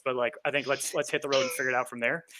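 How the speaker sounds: light Dakotan-meets-Southern drawl. Shown as a demonstration. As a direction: mumble along in a mild Southern twang. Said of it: "not quite a Southern drawl".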